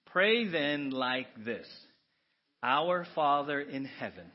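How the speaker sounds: slow, measured recitation; prayer reading. Real, not acted. Congregation reciting the Lord's Prayer, slow. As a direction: read it together, reverently.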